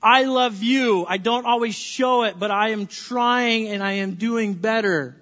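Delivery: slow, sincere "I am sorry"; slow, tender apology to a spouse. Shown as a demonstration. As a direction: speak it slowly as a heartfelt apology. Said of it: "Words of".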